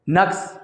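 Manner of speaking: नक्स with a short open a after the n, said slowly and clearly; teacher modelling नक्स as nuh-ks for the class; correct pronunciation. Shown as a demonstration. Tutor shows students the correct नक्स carefully. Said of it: "नून के ऊपर ज़बर है".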